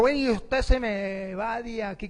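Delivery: drawn-out, mildly acted outrage; imitating an offended princess; mock angry dismissal. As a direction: order them out slowly, hammed-up indignation. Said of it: "Se puso brava".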